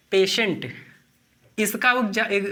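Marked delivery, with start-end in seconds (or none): 0.1-0.7 पेशेंट with a clear sh, pay-shent; teaching pronunciation. Shown as a demonstration. Teacher models patient again with sh. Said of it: "टीआईई".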